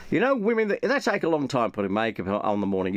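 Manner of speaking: a hint of a generic Australian accent, mostly the speaker's own voice. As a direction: imitate the Australian YouTuber in a loose generic Australian accent. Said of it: "It doesn't sound like this, it's just my generic, uh, Australian accent".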